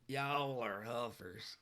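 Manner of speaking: "Y'all are huffers" drawn out slowly in a put-on redneck accent; slow hammed-up white trash accent. Shown as a demonstration. Streamer teases chat in a put-on white trash accent. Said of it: "my best white trash accent".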